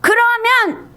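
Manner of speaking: high, drawn-out plea to return; impassioned call to repent; God's urgent call. Acted. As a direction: cry out slowly, stretching each word. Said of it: "하나님은 그래요".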